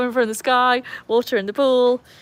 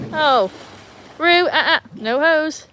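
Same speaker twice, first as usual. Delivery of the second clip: louder, higher warning to the dog; 7 semitones higher, 5 dB louder, slower than usual. Real, not acted. To her dog going for the hose, a louder, higher warning.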